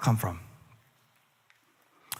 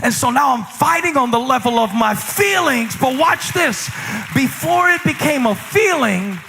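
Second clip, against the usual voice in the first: preaching; 6 semitones higher than usual. Real, not acted. Preaching at full force.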